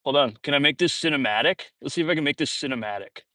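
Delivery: slowed, strained while bent over; bending to tie shoe. Real, not acted. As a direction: talk while bent down tying laces. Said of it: "Hold on, my shoe's untied".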